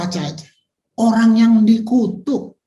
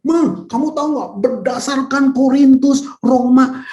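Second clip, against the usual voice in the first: preachy lecturing; 5 semitones higher, 4 dB louder than usual. Retold or imitated. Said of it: "itu saya bawa pisau".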